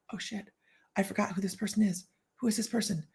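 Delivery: hushed aside to herself; private panic. Retold or imitated. Speaker privately can't place who greeted her, hushed panic. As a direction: drop it right down under the breath.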